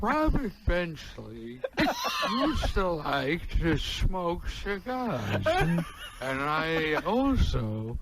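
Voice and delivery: Groucho impression. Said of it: "Do your Groucho".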